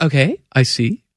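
slow, polite mock New Zealand accent; politely hear them out, lightly New Zealand; polite New Zealand officer. Polite officer answering a traveler, in a light New Zealand accent. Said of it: "they're very polite".

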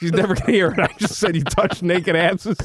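giggling through it; laughing. Real, not acted. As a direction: say it while cracking up. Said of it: "Stop making me laugh".

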